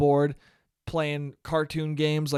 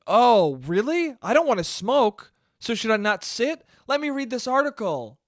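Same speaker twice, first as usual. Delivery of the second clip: gullible reader; 5 semitones higher than usual. Acted. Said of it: "People are gonna be like".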